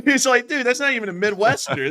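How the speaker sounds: loud, high, through laughter; laughing disbelief. Real, not acted. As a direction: crack up while calling out the bad accent. Cracking up at the botched accent.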